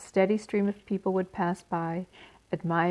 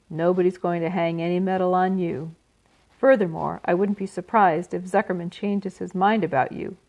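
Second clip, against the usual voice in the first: taunting rat. Acted. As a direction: sneer the bad news with relish. Templeton taunting Wilbur.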